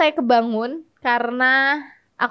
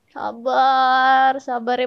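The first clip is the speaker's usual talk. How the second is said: fake sympathy; much slower than usual. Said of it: "yang pura-pura empati".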